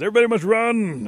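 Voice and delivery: high, very loud order to flee; urgent full-voiced command; shouted alarm. A narrator's reading. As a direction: yell it to the whole crowd. Chief orders panicked flight.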